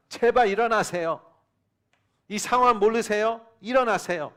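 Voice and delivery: desperate disciples shaking their teacher awake; mock panicked plea. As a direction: beg him to wake up, alarmed. Disciples waking Jesus in storm.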